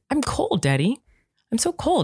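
a hint of a whiny cold toddler; imitating a sick child. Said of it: "he told Eric".

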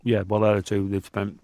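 choking on a sweet mid-sentence; choking on a wine gum. Real, not acted. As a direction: talk through a stuck wine gum. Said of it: "Sorry, I'm choking on a wine gum here".

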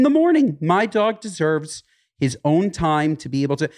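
high, indignant retort; retold comeback. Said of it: "I'm like".

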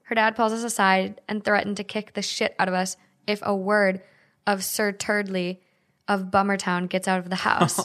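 measured, evenly paced story reading; reading a story aloud. A narrator's reading. Host reading an online post to co-hosts, story narration. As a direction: read the post aloud as a tale.

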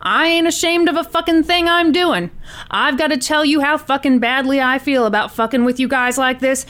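animated read of an agitated hostage-taker; lightly acted defiant gunman on the phone; Tony. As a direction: swear through it emphatically, lightly in character.

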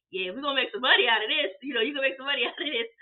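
mock uncle, half laughing; lightly voiced uncle. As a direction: tease about the money with a chuckle. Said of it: "He was like".

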